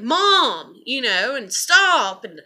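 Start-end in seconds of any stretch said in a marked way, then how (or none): 0.0-0.8 annoyed daughter. Retold or imitated. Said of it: "would be within earshot and be like". 1.5-2.2 annoyed daughter. Retold or imitated. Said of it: "she'd get mad at me".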